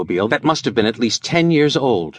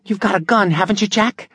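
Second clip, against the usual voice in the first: usual speaking voice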